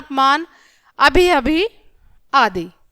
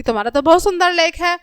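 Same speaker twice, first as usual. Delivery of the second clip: higher-pitched, mildly amazed praise; mild surprise; 4 semitones higher than usual. Shown as a demonstration. Teacher explaining surprise to children, mildly amazed. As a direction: lift the voice in light surprise. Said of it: "यहाँ पर आश्चर्य हो रहा है".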